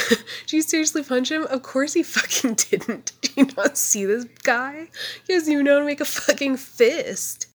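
incredulous yelling. Real, not acted. Yelling at character on screen.

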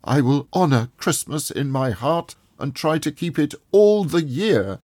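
crying out a vow. A narrator's reading. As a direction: swear it with all his heart. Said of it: "Scrooge cried".

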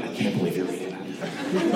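laughing mock reaction. Imagined listener's reaction.

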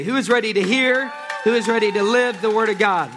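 rallying call to the congregation. Acted. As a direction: push it out to the whole room.

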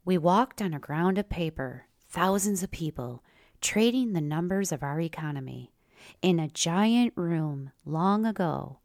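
lively, punchy story reading; story narration. Acted. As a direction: read it like a spoken essay. Reads own written story.

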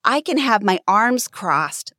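usual speaking voice

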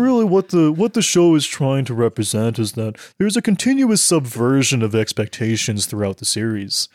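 lightly posh, pretentious analysis; posh pretentious critic voice. Pretend. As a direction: play a snooty know-it-all. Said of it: "that was my, uh, Gene Kirstein".

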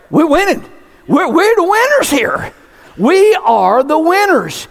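triumphant preacher's victory declaration. Real, not acted. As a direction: celebrate the win with the church. Triumphant sermon climax.

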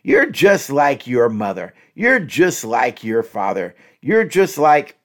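slow, cutting comparison; slow accusing. Shown as a demonstration. Demonstrating a put-down to a partner, slow and cutting. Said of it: "Don't say this".

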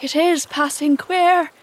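uneasy sidekick. A narrator's reading. Smee and crew fidget uncomfortably, high uneasy remark.

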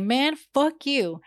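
high, stretched-out retort; mock angry comeback. Woman answering neighbor's rude gesture, acted anger. Retold comeback after being flicked off.

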